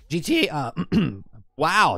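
cracking, breaking voice. Talking about games and their business models, voice cracking. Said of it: "did you hear my voice just crack".

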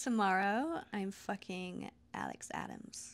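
try-hard, swooping attempted general American accent. Asked about plans for tomorrow, answering in an attempted American accent. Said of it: "I'll try and be American".

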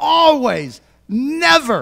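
very high, shrill, yelled outburst. Speaker retells a man's answer in an argument, retelling a yell. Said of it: "I just yelled it".

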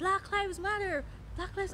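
mock very high, shrill, loud yelling. Retelling a man in a park who shouted at them, imitating his shout. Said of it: "just started shouting".

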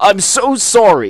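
loud, put-on cartoon voice. Trying the voice again after saying it sounds like Farnsworth: Farnsworth voice. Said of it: "Farnsworth whenever I do the voice".

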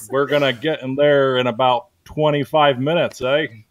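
farmer character voice, wavering all over. Role-playing a close-talking farmer character, farmer voice going all over.

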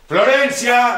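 high, loud yelling. In a drama scene, a character shouts for Florencia. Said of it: "No grites".

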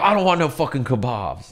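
fake drunken speech. Retelling a friend turning to snap at a vendor: imitating drunk Rip. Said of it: "really drunk".

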